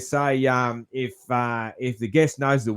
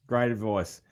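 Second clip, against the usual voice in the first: "Great advice" repeated softer, as a quiet afterthought; softer echo; 3 semitones lower, 5 dB quieter than usual. Real, not acted. Host softly echoing his praise of the guest's advice. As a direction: let "Great advice" fall away as a murmured echo. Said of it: "That's great advice".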